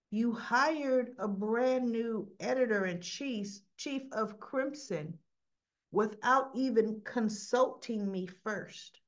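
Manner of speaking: slow, measured mock reproach; unhurried imitation of an aggrieved complaint; deliberate retold accusation. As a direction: spell out the grievance slowly. Retold confrontation, listing the grievance.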